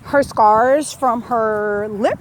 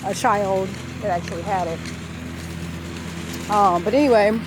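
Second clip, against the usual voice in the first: talking with a numb lower lip. Real, not acted. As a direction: numb lip after wisdom teeth. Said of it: "My lower lip is completely numb".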